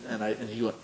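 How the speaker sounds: ordinary delivery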